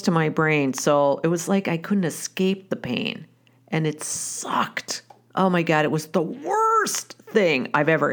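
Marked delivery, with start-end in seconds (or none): 3.7-5.0 slow breathy whisper, almost under the breath; a grim whispered confession; whispered aside. Real, not acted. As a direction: let it drop to a whisper, drawn out. Grim aside about the pain.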